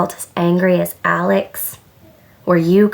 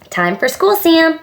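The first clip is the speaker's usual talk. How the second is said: higher, lightly called-out summons; calling out; 9 semitones higher than usual. A narrator's reading. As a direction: call to your child like a mom. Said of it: "Mom called".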